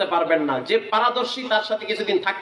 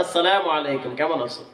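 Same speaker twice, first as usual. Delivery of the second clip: gentle greeting; 7 semitones lower than usual. Retold or imitated. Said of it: "এরকম কইলে যে কি খুশি হইবে".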